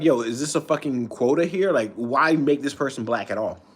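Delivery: talking around chewing gum; words blurred by a wad of gum; mouth full. Real, not acted. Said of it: "I can't really talk with gum in my mouth".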